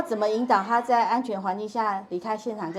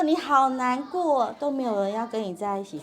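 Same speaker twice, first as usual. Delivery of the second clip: 让人觉得被听懂; 2 semitones higher than usual. Shown as a demonstration. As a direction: stretch the feeling word, then calmly echo their complaint. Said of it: "他就会觉得被听懂". (拉长前半句、平稳共情地重述)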